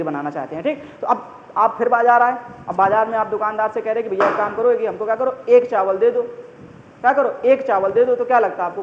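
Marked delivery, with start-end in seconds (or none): 4.2-8.1 wrong way to ask. Shown as a demonstration. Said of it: "कोई एक चावल देगा क्या?".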